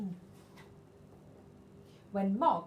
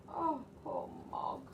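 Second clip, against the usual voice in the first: pitying sigh; 7 semitones higher, slower than usual. A narrator's reading. Pity for wet cat.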